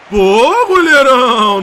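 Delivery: loud cheering; loud praise shout. Real, not acted. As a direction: cheer the keeper loudly.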